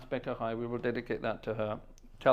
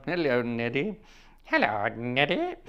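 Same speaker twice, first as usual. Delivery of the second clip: Goons voice. Retold or imitated. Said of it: "that would be Moriarty".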